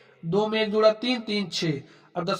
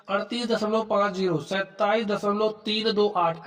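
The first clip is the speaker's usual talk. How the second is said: slow digit reading. Shown as a demonstration. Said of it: "ऐसे पढ़ना आपको".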